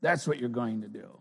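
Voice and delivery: a high commanding little woman, then easing off; Edna. Retold or imitated. Edna commanding Elastigirl, high and loud. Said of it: "She says".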